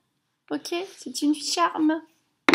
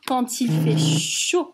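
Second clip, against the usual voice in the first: voix basse et plate, sans élan; le dire sans énergie, d'une voix basse; grave et monotone; 6 semitones lower than usual. Shown as a demonstration. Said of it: "Oh, pardon". (phrase dite basse et plate avant la correction)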